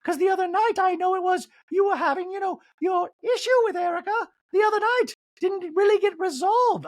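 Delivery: high, loud mock Dorit; Dorit impression. Recapper mocking Dorit raising Erica's issue, high. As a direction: stir the pot in a high Dorit voice. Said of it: "Dorit goes".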